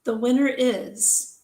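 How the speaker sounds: drawn-out announcer's reveal with suspenseful pauses; winner announcement. Acted. Host reveals the pen contest winner to the entrants, drawn-out announcement. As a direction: announce the winner slowly, holding back the name.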